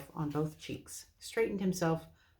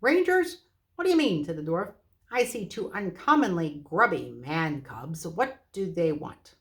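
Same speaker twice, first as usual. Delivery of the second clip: deaf dwarf; 4 dB louder than usual. Acted.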